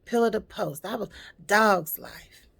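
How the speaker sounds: lightly voiced, emphatic mother; a hint of a complaining mother, slowing at the end. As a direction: lay out her hard life with force. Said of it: "My mother used to always tell me".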